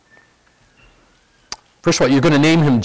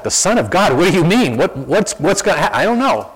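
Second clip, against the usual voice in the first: higher, incredulous questions; baffled angels; 5 semitones higher than usual. Pretend. Angels hear Gabriel's news, incredulous and higher. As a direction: throw it up high in disbelief. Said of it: "the other angels are going like".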